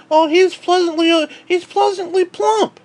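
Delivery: a hint of a prissy, polite onlooker; mock polite euphemism. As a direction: put on a prim, tactful tone for the euphemism. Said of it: "They don't say".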